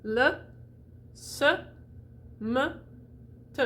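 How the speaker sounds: Le, s, m, t each with a relaxed "uh"; schwa. Shown as a demonstration. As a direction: model Le, s, m, t one by one with pauses. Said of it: "Don't flex your tongue".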